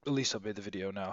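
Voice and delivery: holding back hiccups; talking through hiccups; suppressing hiccups. Real, not acted. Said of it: "Sorry, I've got hiccups".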